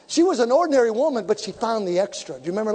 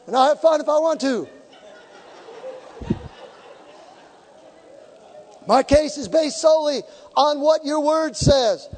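bold prayer; 4 semitones higher than usual. Acted. Preacher presenting his case to God, bold preached prayer. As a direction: pray it out boldly before the church.

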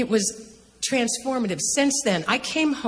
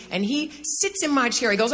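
ordinary talk, nothing marked

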